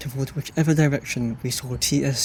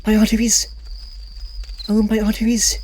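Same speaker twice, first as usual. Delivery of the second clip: clutch your heart in mock shock; overly surprised colonel; 8 semitones higher than usual. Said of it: "in an overly surprised manner".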